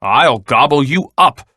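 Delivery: mild storybook shout; lightly voiced threatening troll. A narrator's reading. Troll threatening the biggest goat, mild shout. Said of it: "shouted the troll".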